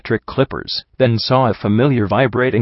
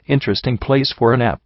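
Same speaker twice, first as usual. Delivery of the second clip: said sharply; 2 semitones higher than usual. Acted. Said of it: "I said sharply".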